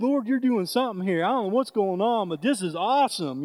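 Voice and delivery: excited praise shouted over the noise; loud praise. Retold or imitated. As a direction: call it out to the Lord in joy.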